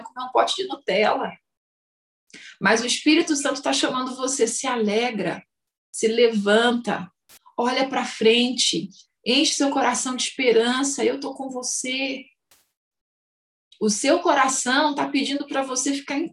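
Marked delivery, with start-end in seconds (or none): 4.5-12.2 tender encouragement. Acted. Voicing the Holy Spirit's call.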